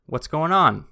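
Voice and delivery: casual greeting with a high, loud swoop; easygoing rehearsed opener, lifted high; relaxed greeting. Acted. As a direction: toss it out to a relaxed guy, pitch swooping up. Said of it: "Very relaxed. He looked like a relaxed guy".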